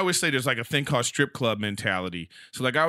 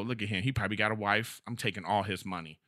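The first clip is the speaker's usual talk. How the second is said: scheming strippers; 5 semitones lower, 7 dB quieter than usual. Retold or imitated.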